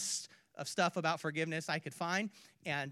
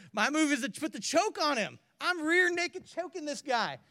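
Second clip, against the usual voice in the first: loud, higher and pumped up; hammed-up tough guy bravado; mock aggressive; 10 semitones higher, 9 dB louder than usual. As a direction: shout it like you're wrestling him. Preacher acting out choking debtor.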